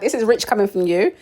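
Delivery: mock indignant callout; sarcastic retort. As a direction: call out the hypocrisy. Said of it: "I'm like".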